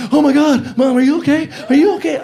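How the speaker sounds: high, loud, frantic cry of Oh my God, Mom; panicked shout. Retold or imitated. Son running to his fallen mother, panicked loud shout. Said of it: "I'm like".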